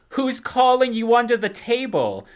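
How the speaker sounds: high, loud mock mom voice; shrill movie mom line; quoting Joan.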